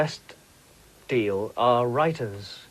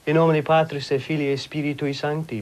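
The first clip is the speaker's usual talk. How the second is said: mock priest blessing. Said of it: "practicing to be a priest".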